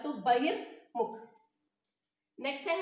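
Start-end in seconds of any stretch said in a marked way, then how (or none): 0.2-1.2 बहिर्मुख with the र sounded before मुख; र sounded early. Shown as a demonstration. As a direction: say बहिर्मुख slowly, voicing the र ahead of मुख. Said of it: "उसके पहले pronounce होता है".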